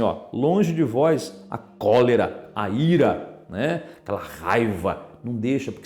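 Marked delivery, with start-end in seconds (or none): 0.3-3.4 scripture reading. Acted. Reads verse aloud.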